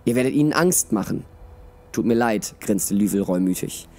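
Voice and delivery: expressive audiobook reading with voiced dialogue; measured storyteller, lively in the dialogue; story narration. A narrator's reading. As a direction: read it like a fantasy tale. Reads a story aloud.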